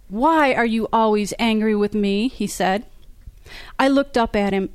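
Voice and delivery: author reading her own novel aloud, voicing the characters lightly; story reading. A narrator's reading. Author reads an elevator quarrel to fans, lively narration. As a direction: read the scene to the audience like a storyteller.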